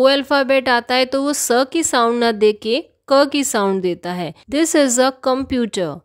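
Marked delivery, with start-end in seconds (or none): 4.5-5.9 slow example sentence. Shown as a demonstration. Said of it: "यह एक computer है".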